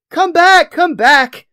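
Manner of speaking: high, loud hammed-up panic; panicked yelling. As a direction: wail it, losing it into singsong babble. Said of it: "starts to lose it a little bit. He starts yelling out".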